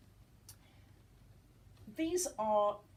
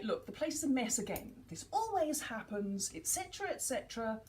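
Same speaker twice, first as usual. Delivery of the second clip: nagging parent. Retold or imitated. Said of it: "and then say".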